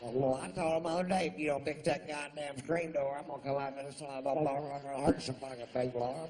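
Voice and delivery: high, loud redneck woman's voice; mock redneck woman. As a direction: play a trashy loudmouth woman at the show. Imitating the redneck chick's talk.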